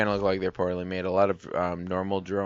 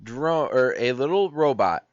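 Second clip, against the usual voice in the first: high, eager and insistent; excited; 6 semitones higher, 4 dB louder than usual. Real, not acted. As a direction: push the point, pitch rising. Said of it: "You are too excited about this".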